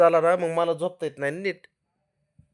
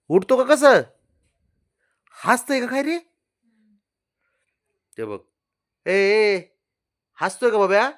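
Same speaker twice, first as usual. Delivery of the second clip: much higher teasing; 9 semitones higher, 5 dB louder than usual. Real, not acted. Owner teasing the grinning dog, high pitched.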